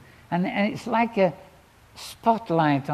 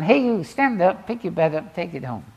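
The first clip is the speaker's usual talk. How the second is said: Jesus's command; 6 dB louder than usual. Retold or imitated. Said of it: "he says to the paralyzed man".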